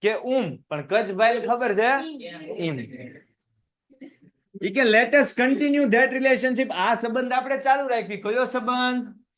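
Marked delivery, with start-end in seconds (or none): 4.8-6.7 very slow, higher read; slow, raised earnest line. Shown as a demonstration. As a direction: propose it slowly and earnestly. Reads Kach's line aloud.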